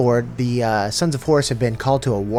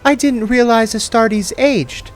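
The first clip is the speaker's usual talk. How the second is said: much higher, slow female voice; slow and careful, composing herself; 13 semitones higher, 5 dB louder, slower than usual. Acted. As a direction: Mercedes to Loken, higher and slow, regaining composure. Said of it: "she said, regaining her composure".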